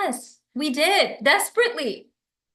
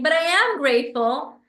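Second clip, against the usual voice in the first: a louder, defensive "But I am grateful"; 4 dB louder than usual. Shown as a demonstration. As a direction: push back as if accused. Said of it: "instead of saying".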